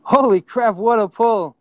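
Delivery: loud burst of real amazement; amazed. Real, not acted. Host reacts to a player's surprise correct answer, amazed.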